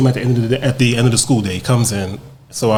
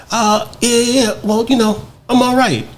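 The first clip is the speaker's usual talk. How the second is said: guarded man's reply; 12 semitones higher than usual. Retold or imitated. Another man's strained reply.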